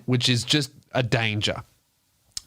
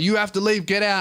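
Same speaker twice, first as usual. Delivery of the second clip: bouncer; 7 semitones higher than usual. Retold or imitated. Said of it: "and then he's like".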